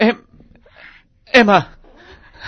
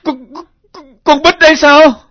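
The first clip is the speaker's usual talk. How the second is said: stunned, louder cries of disbelief; a father realizing the girl is his daughter, shocked; 3 semitones higher, 4 dB louder than usual. Acted. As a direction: reel at the sight of the photo. Father recognizes daughter's photo.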